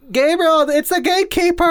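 high, loud mock-horror announcement; dramatic reveal. Host reveals the looming monster to the player, dramatic reveal. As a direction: draw it out, building to the monster's name.

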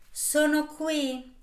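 high, slow, drawn-out witch; shrill witch voice. Acted. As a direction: let it quiver, shrill and slow. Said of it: "vibrò la stridula voce della strega".

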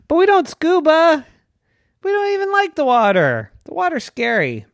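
high, rising disbelief; a father brushing off the idea; incredulous daddy unicorn. Acted.

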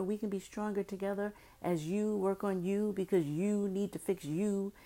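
lightly voiced smooth boyfriend; a hint of a slick, coaxing boyfriend; impression of Kendall. Mocking Kendall's video to his girlfriend, lightly voiced. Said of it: "let me do my impression".

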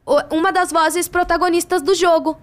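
high-pitched retold big reveal; imitated announcer of news. Colleague revealing a lead role at a noisy party, high and insistent. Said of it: "Aí ele falou assim".

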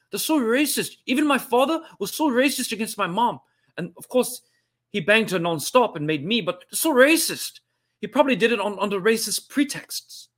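high, protesting South African comedian impression; Trevor Noah. Host denying he does a great impression while doing it, mock-outraged comedian voice. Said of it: "you do a great Trevor Noah".

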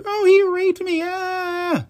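high shrill fake scream of a false accuser; mock shrieking accuser. Mocking a woman's false accusation at the elevator, high hammed-up shriek. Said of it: "and screamed".

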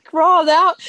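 high, loud bark; animated yell. Retold or imitated. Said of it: "he's so animated".

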